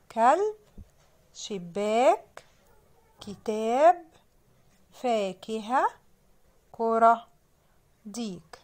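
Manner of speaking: slow, carefully stretched list words; spelling-out reading. Shown as a demonstration. Teacher reading words for children to sound out, spelling-out reading. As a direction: read word by word with clear pauses. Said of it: "كلمات نقولها تاني".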